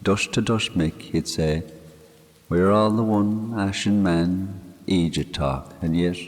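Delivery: a grieving Irish countryman talking to his dead friend; man murmuring to a grave; Mick's voice. Acted. Mick speaking at the graveside.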